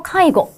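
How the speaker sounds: 카이고 with the last 고 cut short; short final vowel. Shown as a demonstration. Teacher confirming the answer for students, short 고 in 카이고. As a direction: say 카이고 without lengthening the 고. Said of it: "이렇게 짧게 읽어야 되겠죠".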